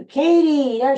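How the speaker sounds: loud, high call to a dog. Real, not acted. Host spots another dog at the door, calling out. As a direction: holler the dog's name up high.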